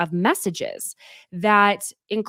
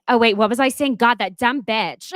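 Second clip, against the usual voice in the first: distracted mock rant; 4 semitones higher, 4 dB louder than usual. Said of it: "I'm like".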